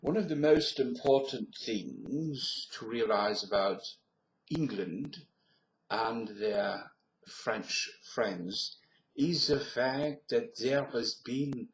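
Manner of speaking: lightly put-on French accent, drawn out. Shown as a demonstration. Accent demo drifting through Europe, French accent. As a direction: speak English with a French accent.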